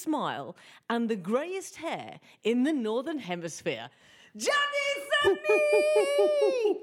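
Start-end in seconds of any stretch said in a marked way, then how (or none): 4.4-6.8 stretched, high, loud name call; big announcement. Acted. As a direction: announce the star guest. Host announces guest loudly.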